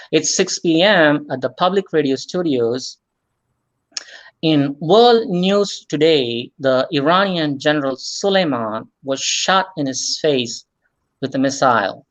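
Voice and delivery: measured public radio announcer read; public radio host. Shown as a demonstration. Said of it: "put on my public radio voice".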